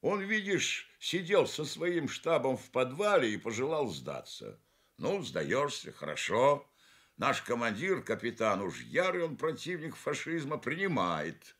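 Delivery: a sergeant eagerly recounting the capture; sergeant's story. Acted. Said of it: "говорит старшина".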